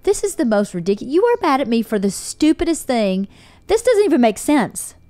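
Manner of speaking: retold exasperation, pitch climbing line by line; mildly outraged retelling of an argument; exasperated. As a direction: let disbelief lift the pitch.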